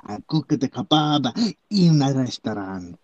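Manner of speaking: mock Eastern European accent. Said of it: "Eastern Europe".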